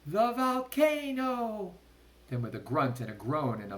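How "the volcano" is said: high, loud alarm; frantic cry; cried out. A narrator's reading. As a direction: yell it again. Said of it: "he shouted again".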